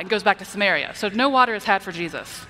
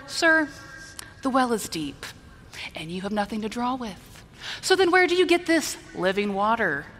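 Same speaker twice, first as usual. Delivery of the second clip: pointed "Sir", then dry doubt; disrespectful skepticism. Shown as a demonstration. Preacher voicing the woman doubting Jesus, mildly disrespectful. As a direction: point out the obvious with mild condescension. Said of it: "I get of her tone of voice here".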